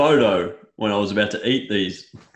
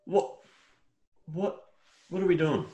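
outraged rant; 5 semitones higher than usual. Real, not acted. Outraged rant about feathered chicken.

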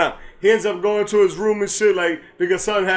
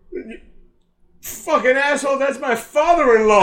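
retold angry rebuke; 5 semitones higher than usual. Retold outrage at defaced picture.

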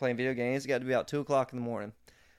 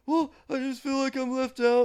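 high, whimpering complaint; whiny friend; 13 semitones higher than usual. Retold or imitated. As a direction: mimic a grown man about to cry. Friend whining, voiced high.

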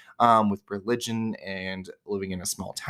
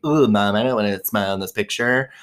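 lightly mocked whiny teen complaint; hint of a reluctant teen; stereotypical teenager. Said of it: "like, a stereotypical teenager".

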